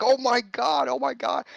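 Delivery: high, bright oh my God repeated; excited squeal. Retold or imitated. Reunited friends squealing in the store, high and excited. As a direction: gush with delight at the reunion. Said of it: "We're like".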